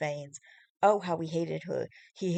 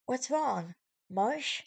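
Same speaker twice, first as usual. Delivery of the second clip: put-on higher worried girl voice; worried girlfriend; 7 semitones higher, much slower than usual. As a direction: ask anxiously in a higher voice. Fiona worried on phone.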